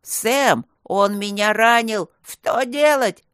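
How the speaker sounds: loud, slow, wailing panic; panicking. A narrator's reading. The wounded robber panics to Sam, loud slow wail. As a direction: whimper in terror, nearly fainting. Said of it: "паниковал второй".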